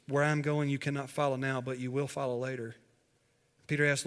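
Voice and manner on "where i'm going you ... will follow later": calm, gently settling reply. Retold or imitated. Jesus gently answering Peter's question, calm. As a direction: answer without reproach, easing softer at the end. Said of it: "He just calmly says".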